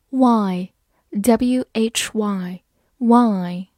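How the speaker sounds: why said very slowly, just like the letter Y; sounding out. Shown as a demonstration. Teacher introduces a new word to learners, sounding out. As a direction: draw out "why" and spell it letter by letter. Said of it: "这个单词的发音和字母Y完全一样".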